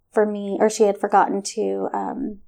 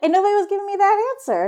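talking through laughter, higher; laughing; 11 semitones higher, much faster than usual. Real, not acted. Laughing with the host at her own reaction, through laughter. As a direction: laugh as you admit it.

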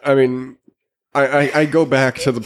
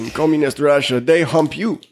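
hint of a Russian accent, laughing; lightly mock Russian accent; 4 semitones higher than usual. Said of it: "I can't do a Russian accent".

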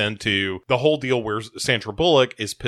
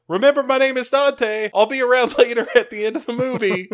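mock creepy photographer; 12 semitones higher than usual. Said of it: "he's like".

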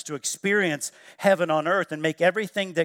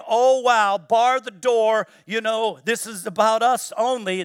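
mock-alarmed, higher and louder; 3 semitones higher, 4 dB louder than usual. Preacher mocking an inward-looking church, mock alarm. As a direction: play a fearful church barring the door. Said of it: "It's not us saying".

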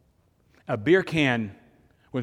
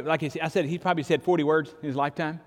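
usual speaking voice

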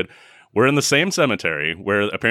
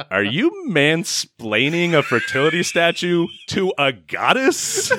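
tag; 8 semitones higher than usual. Acted. Mock-confronting a character through laughter.

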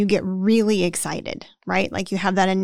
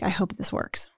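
whispered hopeful wish; 8 dB quieter than usual. Retold or imitated. Business owner's hopeful inner thought.

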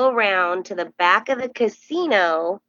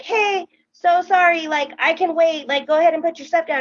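higher-pitched, sheepish fan voice; acted apology; 8 semitones higher than usual. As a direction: re-enact a polite, flustered apology.

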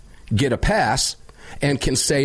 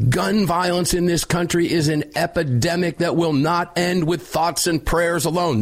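mock speech voice; 6 semitones higher than usual. Reading the White House line.

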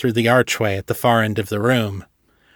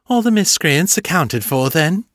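sly vampire greeting; 6 semitones higher than usual. A narrator's reading. Morgan the vampire greeting the heroes, high sly croon. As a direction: purr it like a smug vampire.

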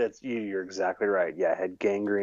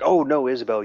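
the Doctor; 4 semitones higher, 4 dB louder, faster than usual. Retold or imitated. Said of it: "'cause he's like".

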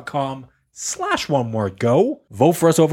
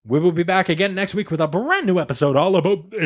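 ordinary talk

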